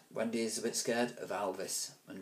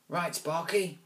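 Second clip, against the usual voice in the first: higher bossy call; bully order; 8 semitones higher, slower than usual. Acted. Alvis ordering Sparky, bossy. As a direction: order the sidekick.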